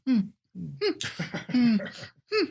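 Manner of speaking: short little "hmm" grunts, imitating sensual noises; mock sensual hums. Reviewer mimicking the actress's noises throughout the movie, mock sensual hums. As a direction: imitate breathy-scene hums in small separate bursts. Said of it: "these sensual sounds".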